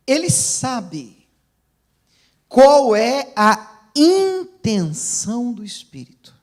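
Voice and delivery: forceful pulpit reading; proclaiming scripture. Real, not acted. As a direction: draw out the verse, swelling on "intenção".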